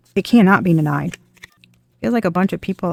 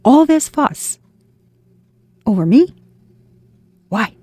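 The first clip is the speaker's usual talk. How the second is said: bewildered disbelief; 2 semitones higher, slower than usual. Pretend. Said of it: "you are gonna be like".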